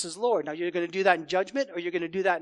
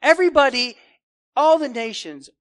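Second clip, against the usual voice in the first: loud, higher, exasperated rebuke; indignant God; 6 semitones higher, 9 dB louder than usual. Acted. The Lord rebuking his careless people, loud and exasperated. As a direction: scold them like a wounded king.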